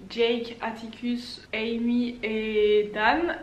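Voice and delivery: English names in a French accent; slow, French-accented list of names. Real, not acted. Book reviewer listing the four characters, French accent. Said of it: "mon magnifique accent français".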